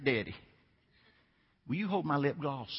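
lightly voiced Southern little girl; imitated Southern accent. Little daughter to her coach dad mid-game, light Southern accent. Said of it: "She said, in that southern accent".

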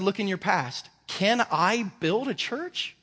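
God mocking the worry; incredulous God. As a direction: ask like the answer is obvious. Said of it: "God said".

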